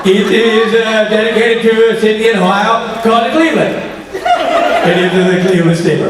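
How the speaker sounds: slow, laughing hint of a Swedish accent; Swedish impression. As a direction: explain it earnestly like a Swedish singer, slowly. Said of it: "That spot on impression".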